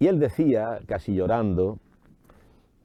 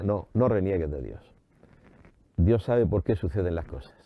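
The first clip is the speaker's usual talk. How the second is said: lower-pitched, understated motherly counsel; gentle admonition; 4 semitones lower than usual. Retold or imitated. Preacher voices Mother Church answering a complainer, gently admonishing. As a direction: answer the protest in a lower, steady voice.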